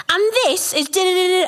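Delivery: high, lightly mocking child presenter; documentary presenter. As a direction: play a kid narrating a documentary. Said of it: "be like".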